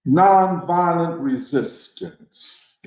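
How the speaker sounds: "nonviolent resistance" said slowly, both words weighted; stress on both words. Shown as a demonstration. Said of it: "emphasis on both words".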